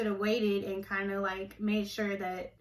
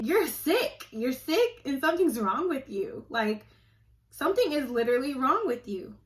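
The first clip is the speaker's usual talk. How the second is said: heated rant; 3 semitones higher than usual. Real, not acted. Accusing church manipulators to viewers, heated. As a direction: tell them off with heat.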